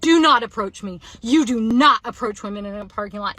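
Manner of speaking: loud, firm re-enacted warning; emphatic mock yell, hard on "not"; retold yelling. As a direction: act out yelling someone off. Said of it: "Like, yelling it".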